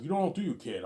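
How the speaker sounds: high, loud tough-cop line; mock cop shout. Cop mocks the arrested kid, loud and high. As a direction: throw it at him like a sneering cop. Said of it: "the cop's like".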